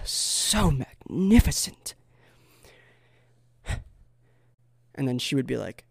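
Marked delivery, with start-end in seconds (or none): 0.0-3.8 slow, higher, drawn-out marvelling; mock awe. Suitor praising the woman he walked by, overblown awe. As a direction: stretch it out in theatrical wonder. Acts awestruck wooing of silky woman.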